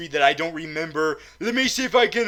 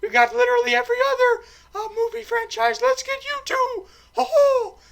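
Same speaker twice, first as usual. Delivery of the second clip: very high cartoon mouse falsetto; Mickey; 5 dB louder than usual. Mouse recruiting James Bond to Disney, squeaky mouse impression. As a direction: squeak it out fast and loud with mousy chuckles. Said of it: "the mouse is like".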